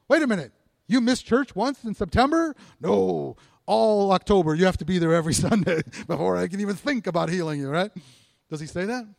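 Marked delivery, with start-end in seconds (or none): 0.1-7.7 mock scolding.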